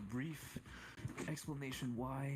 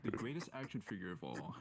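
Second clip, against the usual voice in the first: storyteller voice. Acted. Mock commercial storyteller pitch.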